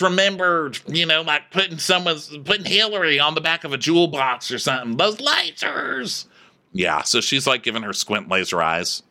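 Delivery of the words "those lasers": high, drawn-out comic exclamation; mock awe. Comic marvelling at the squint eyes, high mock awe.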